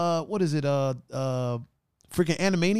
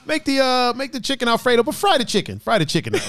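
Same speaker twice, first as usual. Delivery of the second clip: high-pitched, hammed-up Italian mobster; comic Italian wiseguy accent, pitched up; Italian gangster accent; 7 semitones higher than usual. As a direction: order it like a cartoon Italian gangster. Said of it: "a Italian gangster accent".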